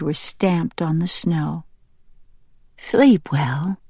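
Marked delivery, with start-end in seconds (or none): 2.8-3.8 tender bedtime whisper. A narrator's reading. Mother to her baby curling up to sleep, whispering. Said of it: "Sprout whispered".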